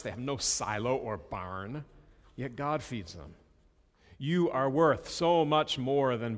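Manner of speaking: unhurried Bible reading voice; scripture reading. Acted. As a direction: read the passage with weight. Reads scripture passage aloud.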